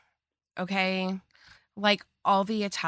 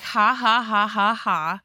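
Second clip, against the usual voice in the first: a louder, exaggerated ha ha ha; mock laugh; 5 dB louder than usual. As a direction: laugh it off like it's a prank call. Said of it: "At first, Izzy's like".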